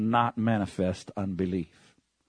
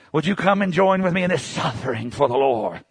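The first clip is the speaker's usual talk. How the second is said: mocking laugh; 4 semitones higher than usual. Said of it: "mocking sufferers".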